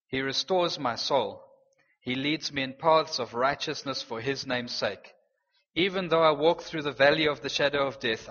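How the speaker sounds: measured, calm psalm reading; calm reading of Psalm 23 to the congregation; scripture reading. Acted. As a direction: read it as a comforting promise.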